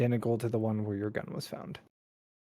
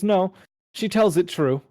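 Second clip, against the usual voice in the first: talking gun; 7 semitones higher, 7 dB louder than usual. Acted. Gun speaks up, voiced character.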